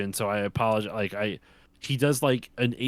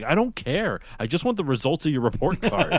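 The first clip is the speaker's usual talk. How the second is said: slightly higher mock-stern dad; uncaring sketch dad; 4 semitones higher than usual. Sketch dad dismissing his bullied son, mock stern. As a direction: brush off the son, lightly hammed. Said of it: "this is like".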